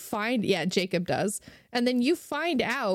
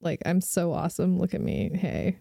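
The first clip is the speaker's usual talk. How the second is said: smug, bro-ish mock voice, louder at the end; laughing parody of a show-off; mocking Jacob; 2 semitones lower, 6 dB louder than usual. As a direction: lampoon him as a vain meathead. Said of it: "He's like".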